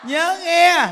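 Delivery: high, loud exhortation; fervent preaching. Acted. Monk urging listeners to recite, fervent preaching. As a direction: rouse the crowd to practice.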